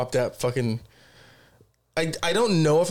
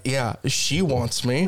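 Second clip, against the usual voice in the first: mock cocky; 2 semitones lower, much slower than usual. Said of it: "I'm like".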